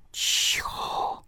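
sharply hushed whisper, all breath. A narrator's reading. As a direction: whisper it to silence someone. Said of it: "szepnęłyśmy jednocześnie".

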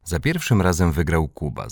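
plain reading voice

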